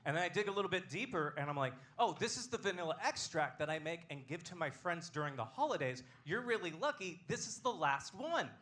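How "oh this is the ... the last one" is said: higher-pitched, hammed-up proud gift-giver; mock gushing. Robbery victim shows robber homemade extract, high and mock gushing. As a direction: present it like a treasure, pitched up.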